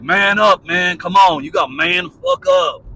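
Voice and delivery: imitating a mate barking at him to man up; mock tough urging. Mate urging the sick friend to man up, in a loud mock shout.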